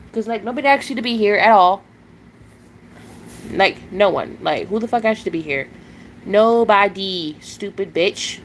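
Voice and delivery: real fury at a chat troll; angry telling off. Real, not acted. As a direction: throw the troll out with venom. Cursing out a troll on stream.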